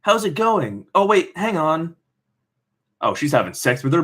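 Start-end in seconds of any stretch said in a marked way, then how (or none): 0.0-2.0 giggly friend. Acted.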